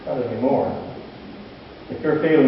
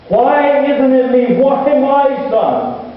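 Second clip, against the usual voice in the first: higher and slow, a father's anguished plea; grieving father's cry; 12 semitones higher, 5 dB louder, much slower than usual. Retold or imitated. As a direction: let it crack upward in slow disbelief. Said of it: "He wept openly".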